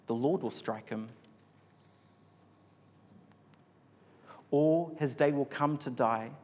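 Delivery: measured Bible reading with pauses between phrases; scripture reading. A narrator's reading. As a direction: read the passage out solemnly, phrase by phrase. Reads the Bible passage aloud.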